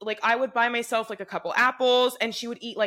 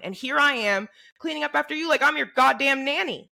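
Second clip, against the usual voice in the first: retold angry rant; 5 semitones higher than usual. Fed-up roommate over a sink full of dishes, angry rant. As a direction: vent like you're fed up with cleaning up.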